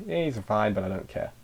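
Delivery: soft, falling, dismissive shrug; a touch of mock apathy, trailing quiet; bored indifference. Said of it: "I should do this for, like, another twenty seconds".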